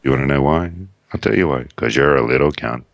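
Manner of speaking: slow, mock ranting bit; sound bite quote. A mild mock of the Hollywood Babylon sound bite about a pop singer. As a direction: rant like the podcast clip. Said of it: "one of their little sound bites".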